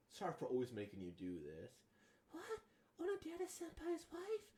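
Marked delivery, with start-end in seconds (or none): 2.3-4.5 high, rising disbelief; can't believe the word wife; shocked double take; surprised. Acted. Stunned outburst at a rumour.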